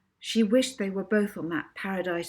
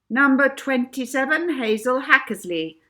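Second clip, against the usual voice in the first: louder, higher showman announcement; compere announcing; 7 semitones higher, 9 dB louder than usual. Acted. Compere in red waistcoat introducing Hazel, loud announcement. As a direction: call the next act like a stage host. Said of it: "announced the compere".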